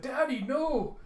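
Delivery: high, loud wail of grief; anguished scream. Acted. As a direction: cry out at the sight. Girl seeing father's corpse.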